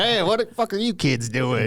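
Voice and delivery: put-on high, barking redneck yell at the kids; hillbilly hollering at the teens; drunk redneck. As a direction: play the angry drunk redneck shooing kids off. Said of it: "alcoholic redneck people on the property".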